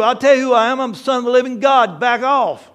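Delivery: loud, bold claim of sonship; bold declaration. Acted. Jesus answers the devil, bold and loud. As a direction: stand your ground and declare it. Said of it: "Who are you".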